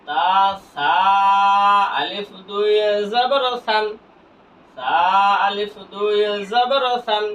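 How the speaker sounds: long-held syllables; measured recitation drill. Shown as a demonstration. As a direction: stretch each letter name evenly. Spelling drill recited for learners.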